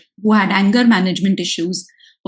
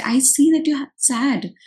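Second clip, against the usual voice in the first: put-on higher, slow and simple, like a parent to a five-year-old; speaking at a child's level; 5 semitones higher, 3 dB quieter than usual. Shown as a demonstration. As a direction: say "I see that you're sad" slowly, up high, pitched to a little child. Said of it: "speak at what a child five-year-old would speak".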